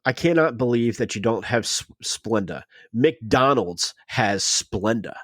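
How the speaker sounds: slow, drawn-out mock indignation; retold pompous disbelief, deliberately paced; indignant customer impression. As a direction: stretch out the store name like an affronted customer. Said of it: "like that".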